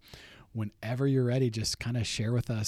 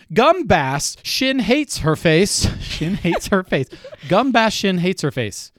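loud slow sounding out; 6 semitones higher, 11 dB louder, slower than usual. Real, not acted. Sounding out clue in a game.

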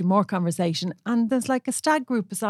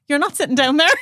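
louder, higher, final; firm telling-off; 6 semitones higher, 6 dB louder than usual. Retold or imitated. Telling a stag-party man he can't sit there, loud firm telling-off. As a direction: put your foot down.

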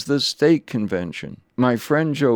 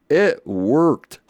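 raised, punchy announcement of success; triumphant; 4 semitones higher, 4 dB louder than usual. Real, not acted. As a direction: proudly land the punchline. Triumphant punchline, then taken back.

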